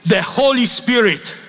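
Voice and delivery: high, slow, solemn proclamation; solemn blessing. Retold or imitated. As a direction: bless them like a pope. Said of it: "he extended hand and said".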